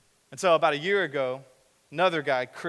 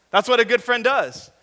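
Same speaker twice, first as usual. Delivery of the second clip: sarcastic; 8 semitones higher, 9 dB louder than usual. Acted. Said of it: "mocking emphasis".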